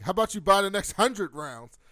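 retold barroom taunt; taunting challenge. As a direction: goad them with an outrageous counter-offer. Bar bullies taunt her in retelling.

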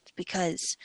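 lightly voiced sad little fairy; a hint of a mopey fairy; emo fairy voice. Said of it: "What is this voice?".

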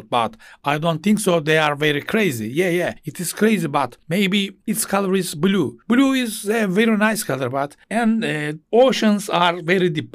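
lightly voiced made-up English chatter; improvised English rambling. Shown as a demonstration. Teacher demos free English speaking practice, loosely improvised. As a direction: ramble in English off the top of your head. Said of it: "Bak kafadan böyle sallıyorum".

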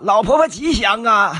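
bright laughing welcome; cheerful greeting. Shown as a demonstration. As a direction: greet her with a big smile. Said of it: "你应该这么说".

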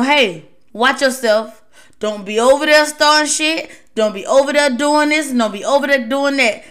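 a touch of a stern talk to a coworker; firm warning. Retold or imitated. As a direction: warn a teammate firmly, unhurried start. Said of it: "You may have to talk like that to 'em".

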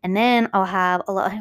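rising, talking-down tone; condescending. Real, not acted. Host explaining levels to listeners, condescending. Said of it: "I hated the way I said that".

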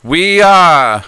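town crier. Acted. Announcing to the town crowd.

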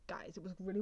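hushed confiding whisper to the guys. Real, not acted. Telling listeners about a July Christmas film, whispered. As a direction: whisper it like a secret.

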